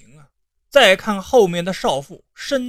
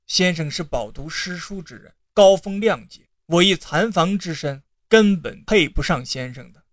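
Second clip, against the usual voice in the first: tearful; 3 semitones lower than usual. Acted. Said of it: "流着泪就走了出来".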